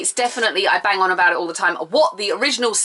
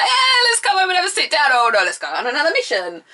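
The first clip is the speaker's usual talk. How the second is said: weary Virgil; 7 semitones higher than usual. Retold or imitated. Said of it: "He's like".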